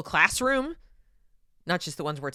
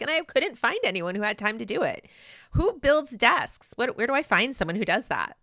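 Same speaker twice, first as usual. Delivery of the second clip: lightly put-on clueless Valley Girl, pitched higher; a touch of airy Valley Girl cluelessness; mock Valley Girl whining about a desk delay; 4 semitones higher than usual. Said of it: "that's my little Valley Girl voice".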